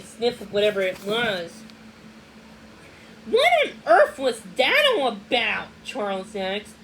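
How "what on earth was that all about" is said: bewildered. A narrator's reading. Boy baffled by the visit.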